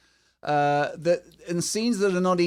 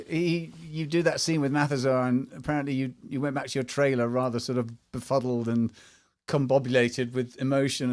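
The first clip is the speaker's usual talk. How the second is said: normal talking voice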